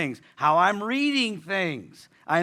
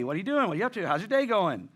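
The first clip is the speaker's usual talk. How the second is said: friendly check-in; faster than usual. Retold or imitated. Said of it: "She's just checking on my day".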